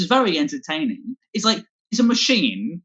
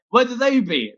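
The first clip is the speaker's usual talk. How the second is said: pirate voice; 4 semitones higher than usual. Retold or imitated. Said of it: "they're doing an impression of a pirate".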